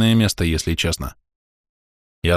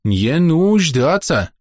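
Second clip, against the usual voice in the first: very slow, high, firm broken Russian; «не нуждаться» drawn out slowly, each syllable firm; 8 semitones higher, much slower than usual. A narrator's reading. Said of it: "повторила Рис".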